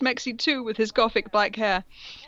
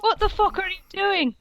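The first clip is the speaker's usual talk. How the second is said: higher, outraged yell; hammed-up fury at the villain; mock angry shout; 10 semitones higher than usual. Fanfic reader acting a hero's furious shout. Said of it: "I shooted ang-, angrily".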